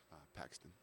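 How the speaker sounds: barely audible. Retold or imitated. Bartender to customers asking his name, barely audible. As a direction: mumble your name so nobody hears. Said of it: "I do the exact opposite".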